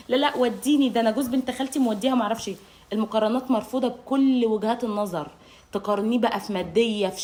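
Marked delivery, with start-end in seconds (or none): 0.1-2.5 mock nagging comparison. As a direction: rattle off what the cousin got. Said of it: "المقارنه". (زوجة بتتذمر بسرعة)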